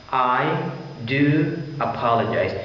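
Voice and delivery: emphatic apology, weight on "do"; stress on do. Shown as a demonstration. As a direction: lean on the word "do" for emphasis. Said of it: "do is emphasizing your apologies".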